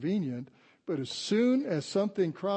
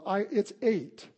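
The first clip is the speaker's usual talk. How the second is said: slow, higher Southern drawl, lightly imitated; Skylar; 5 semitones higher, slower than usual. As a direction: hedge like a little Southern girl. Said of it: "that Southern accent like Skylar does".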